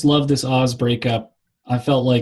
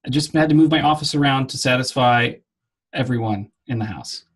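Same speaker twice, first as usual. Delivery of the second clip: echoey audio. Real, not acted. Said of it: "Why are you recording in a cave".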